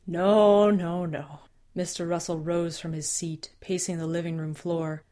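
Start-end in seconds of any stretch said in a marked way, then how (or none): 0.1-1.4 angry denial. Acted. Father refuses to believe.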